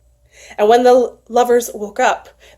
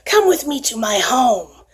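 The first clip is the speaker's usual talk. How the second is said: put-on kindly old priest; 3 dB quieter than usual. Kindly priest lures lost lovers.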